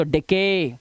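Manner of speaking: "डिके" ending in a long ay; pronounced with ay. Shown as a demonstration. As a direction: stretch the final vowel of "डिके" as ay. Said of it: "उच्चारण क्या करना है हमें".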